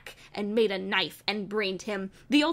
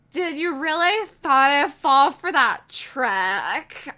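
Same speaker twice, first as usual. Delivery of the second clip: mocking taunt; 4 semitones higher, 6 dB louder, slower than usual. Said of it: "I said, lolling".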